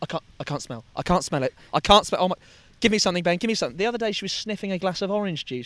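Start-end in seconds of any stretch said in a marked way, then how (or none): 0.0-3.8 loud, frantic, full-on panicking. Retelling how the sister reacts to the made-up smell: imitating panicked sister. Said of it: "full on panicking".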